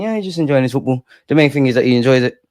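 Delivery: quick, mock-casual dad talk; acted nonchalance. Proud dad downplaying his footballer son, acting nonchalant. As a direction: toss it off fast, playing unbothered. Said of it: "I act nonchalant".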